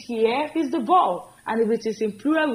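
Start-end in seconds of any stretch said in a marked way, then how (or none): 0.1-1.3 slow, deliberate model line; slow teacher demo; slow correct form. Shown as a demonstration. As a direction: say it slowly so they copy it. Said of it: "So it is".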